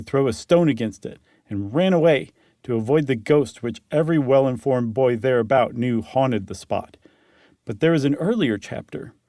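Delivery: measured storyteller reading; story narration. Acted. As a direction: read it like an old tale told by the fire. Reads the story aloud.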